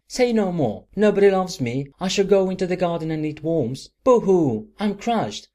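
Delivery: badly faked boo-hoo despair; mock tragic wail. A narrator's reading. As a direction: play the wronged child for laughs. Mock self-pity, fake sobbing.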